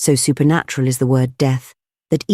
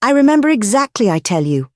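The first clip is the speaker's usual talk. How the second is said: much higher, insistent outburst; excited cry; 9 semitones higher than usual. A narrator's reading. Young duke contradicts the chairman, crying out excitedly. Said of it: "cried the duke excitedly".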